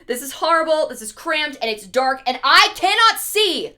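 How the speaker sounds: building to a high, loud wail; mock distressed complaint. Adam hating the dark cave, in mounting mock distress. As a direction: pile up grievances, peaking on the last one.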